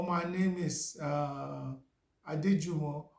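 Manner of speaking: halting, with a searching "uh"; old strong accent. Shown as a demonstration. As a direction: imitate yourself struggling through an English introduction. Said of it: "Let me try and imitate myself".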